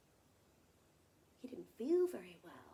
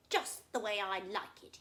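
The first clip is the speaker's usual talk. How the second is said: smug crocodile; 6 dB louder than usual. Acted. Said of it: "he said".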